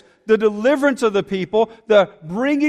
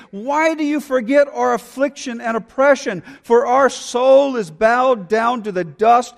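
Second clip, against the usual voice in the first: fervent psalm read with rising urgency; passionate scripture reading. Acted. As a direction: read it as a pleading prayer. Reads psalm aloud.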